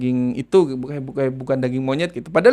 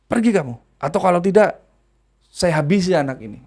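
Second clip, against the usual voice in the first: high, menacing threat; threatening spirit; 5 semitones higher than usual. Retold or imitated. Spirit threatens to harm the girl, high menace. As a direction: order them silent and threaten, pitched up. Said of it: "Bilang gitu".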